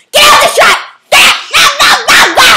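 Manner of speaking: mock shouting. Host yelling at someone to leave the shot. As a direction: chase them out of shot.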